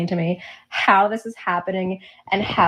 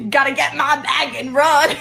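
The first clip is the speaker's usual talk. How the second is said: high, loud put-on hustler; joking hustler voice; 8 semitones higher, 4 dB louder than usual. Cohost playing a woman grabbing money, high and loud. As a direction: blurt it like a sly hustler.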